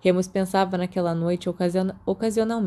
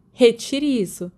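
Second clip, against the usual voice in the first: louder and slow, a playful roar; mock roar; 4 semitones higher, 5 dB louder, slower than usual. A narrator's reading. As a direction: growl it out as a joking threat. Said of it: "James rugiu". (rugido brincalhão, mais alto e lento)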